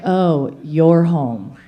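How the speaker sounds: low, unimpressed greeting; aloof. Acted. Cat-like guy greeting partner at home, aloof. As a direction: greet them with cool indifference.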